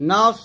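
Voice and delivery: "নাফ" rounded into a long emphatic s hiss; heavy Sad. Shown as a demonstration. Teacher showing how, heavy hissed ending on "নাফ". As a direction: let "নাফ" end in thick, sustained s. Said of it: "এরকম".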